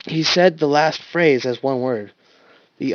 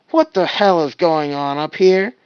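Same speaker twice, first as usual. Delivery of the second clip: demanding shout; 5 semitones higher, 7 dB louder than usual. Acted. Wash demands from behind them.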